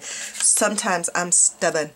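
slow, understated sarcasm; sarcastic. Real, not acted. Vlogger admitting to viewers she's stubborn, understated sarcasm. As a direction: drawl it with dry irony. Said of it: "That's sarcasm".

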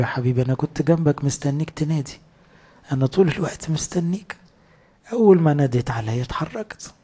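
tender voice of God. Acted. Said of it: "قال له".

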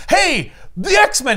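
high, slow gleeful cry; mock thrilled shout of the team name; excited X-Men cheer. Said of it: "He's like".

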